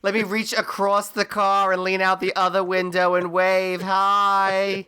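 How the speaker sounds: high, put-on cheery mom calling out; sustained high sing-out, greeting everyone eagerly; Missus LaRusso. Mom waving across the car to the parents, high chirpy hello. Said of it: "Missus LaRusso is, like, a saint".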